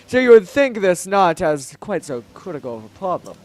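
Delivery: lightly declaiming monarch; grand Zora king, measured. Acted. King reasoning about water and his people, stately and measured. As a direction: keep a formal royal air.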